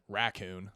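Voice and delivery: raccoon as "RACK-coon", both syllables clear; full first syllable. Shown as a demonstration. Answering how to say it, raccoon as "rack-coon". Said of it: "I go back and forth between".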